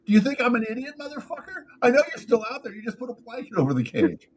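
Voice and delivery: very high, squawky parrot voice; cussing parrot. Acted. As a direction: protest as an insulted parrot. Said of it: "He's like".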